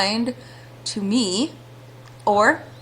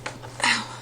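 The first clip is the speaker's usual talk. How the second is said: hiccup; 7 dB quieter than usual. Real, not acted. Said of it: "I have the hiccups".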